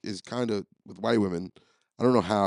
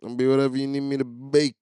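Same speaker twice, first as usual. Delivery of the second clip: retold yell; 4 semitones higher than usual. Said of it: "I'm yelling, like".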